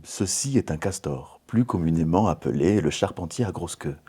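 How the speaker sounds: lightly voiced, neutral, serious nature documentary read; documentary narrator voice. Shown as a demonstration. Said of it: "la voix la plus neutre possible".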